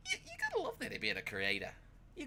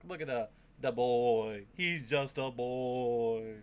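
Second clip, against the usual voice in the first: fawning gush; 8 dB louder, slower than usual. Real, not acted. Fawning over the character.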